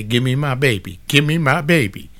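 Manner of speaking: half-acted pleading mother, rising into the repeat; imitating a crying mother. Mother hearing her newborn cry, pleading mildly in mock tears. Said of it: "she gonna start crying and say".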